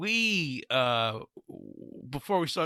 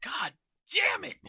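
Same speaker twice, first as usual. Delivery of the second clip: mock anguished sob. Mock anguish, cry heard.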